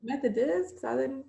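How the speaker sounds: mock baffled colleague. Colleagues guessing which Southern school, mock baffled.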